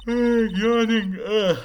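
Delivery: loud, high, drawn-out groan; loud outburst. Acted. Game player acting out a character's groan, loud outburst.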